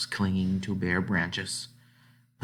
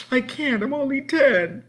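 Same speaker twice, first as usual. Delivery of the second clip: higher, pleading and scared; frightened girl; 6 dB louder than usual. Acted. Frightened ten-year-old pleading she can't go on.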